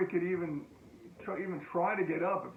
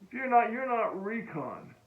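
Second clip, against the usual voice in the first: a bit higher, slowing down on the last words; mild tough-guy taunt; 4 semitones higher than usual. Retold or imitated. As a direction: sneer it like a cocky marine. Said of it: "He goes".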